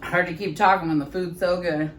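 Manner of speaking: usual speaking voice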